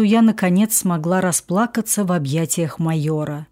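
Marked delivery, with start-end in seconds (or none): none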